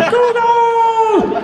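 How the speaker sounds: very high, loud, drawn-out holler; mock caveman war cry, held long; enthusiastic caveman. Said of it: "presented myself as an enthusiastic caveman".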